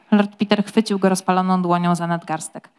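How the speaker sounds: normal talking voice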